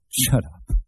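lightly cheery, everyday retort; cheery conversational tone. A narrator's reading. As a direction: say it casually, with a touch of cheer. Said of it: "spoke in a conversational tone which was rather cheery".

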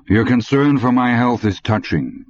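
put-on dry ironic old German; mock the boy's concern; lightly accented sarcasm; sarcastic.

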